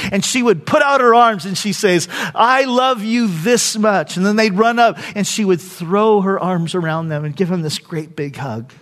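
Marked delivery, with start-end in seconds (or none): 2.3-4.2 slowly proclaimed, imitated motherly love; imitating mother's declaration of love. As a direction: stretch it out for the children, voiced as mother. Mother answers her children lovingly.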